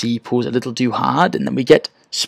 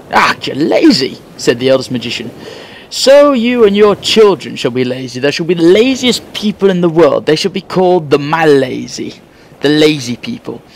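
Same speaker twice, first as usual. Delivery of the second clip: louder, higher mock scolding; stern magician; 4 semitones higher, 4 dB louder than usual. Eldest magician scolding the lazy man, a touch of stern loudness. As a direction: pronounce a playful judgement on laziness.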